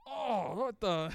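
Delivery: comic host repulsed at a husband; disgusted De Niro. Pretend. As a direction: recoil in hammed-up disgust. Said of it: "is disgusted".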